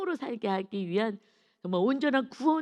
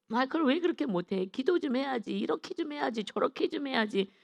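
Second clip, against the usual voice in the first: higher-pitched nagging reproach; imitated mocking; 5 semitones higher than usual. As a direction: act out friends needling someone with advice. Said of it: "막 그 조롱하는 것처럼 느껴지는 거죠".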